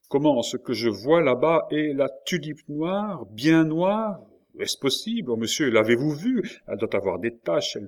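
he can hardly believe his eyes; astonished excitement. A narrator's reading. Prisoner to the officer about the black tulip, astonished.

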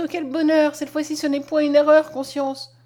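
high, loud burst of happiness; overjoyed exclamation. A narrator's reading. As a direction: cry out for joy, easing on the last word. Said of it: "s'écria Mariette".

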